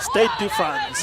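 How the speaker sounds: slow French said with a Fijian accent. Real, not acted. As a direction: say Stade de France slowly, Fijian-accented. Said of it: "speaking French with a Fijian accent there".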